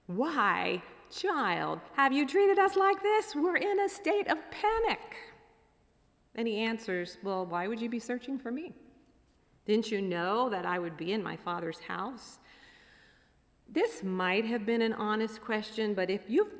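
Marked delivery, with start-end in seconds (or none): 0.1-5.2 high, loud, exasperated outburst; panicked mother. Acted. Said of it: "of the tone of voice". 7.2-12.4 lightly voiced sarcastic teen; slightly sarcastic teenager. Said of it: "a little bit of sarcasm in his voice".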